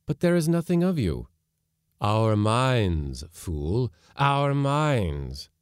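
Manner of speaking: contemptuous ghost voice; scornful spirit. Acted. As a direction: scold the fool. Spirit argues.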